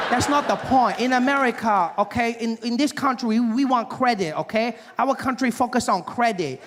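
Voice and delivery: put-on Asian salesman accent. Salesman lectures the customer on credit, mock Asian accent. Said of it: "He said".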